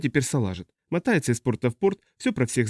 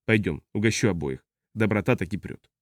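slightly lowered, genial drinker's voice; drunk spacer; 4 semitones lower, 3 dB quieter than usual. Acted. Tipsy man treats both, low and genial. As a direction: offer it easily, voice sinking a little.

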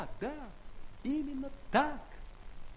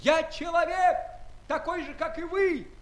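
indignant; 3 semitones higher, 5 dB louder than usual. Acted. Gulliver protests to scholars.

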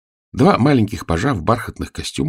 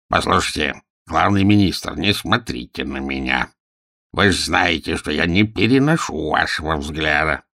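a hint of a rumbling fat minister; rumbling chest voice. Minister Abazh complains to Nushrok, lightly rumbling. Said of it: "ракочущим грудным голосом".

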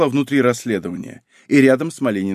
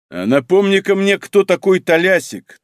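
ominous tone; 6 semitones higher, 4 dB louder than usual. A narrator's reading. Husband asking about his wife's lover, ominous. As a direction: let the threat sit under each word. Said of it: "тоном, не предвещающим ничего хорошего".

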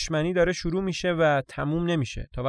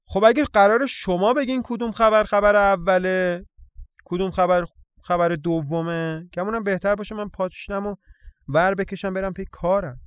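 higher, emphatic voice of a put-out town gossip; self-important, huffy newsbearer; 5 semitones higher, 5 dB louder than usual. Acted. Johnny threatens to leave if others order his news, huffy. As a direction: play the offended bringer of news.

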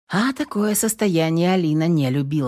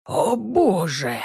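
hoarse gasp; much slower than usual. A narrator's reading. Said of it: "просипел кто-то".

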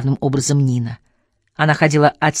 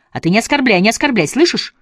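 shouting; 8 semitones higher than usual. A narrator's reading. Nina shouting back at Asya in a quarrel. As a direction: yell it back at her, offended. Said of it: "кричала Нина".

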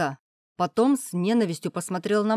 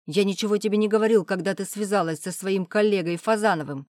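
louder, fast furious tirade; shouting; 2 semitones higher, 5 dB louder than usual. Acted. Father shouts at daughter about her past men, fast loud tirade. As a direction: let the father's anger spill out in a rush. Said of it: "Отец принялся кричать".

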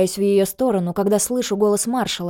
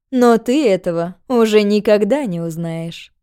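cold villainess; 5 dB louder than usual. Acted. Villainess says it as she shoots.

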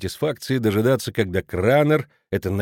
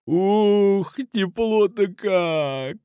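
much higher, slow lecherous purr; leering exclaim; 9 semitones higher, much slower than usual. A narrator's reading. Kraner groping Mrs Schmidt, leering. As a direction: savour it with a leer. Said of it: "ухмыляясь, воскликнул он".

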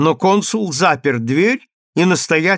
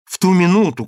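plain reading voice

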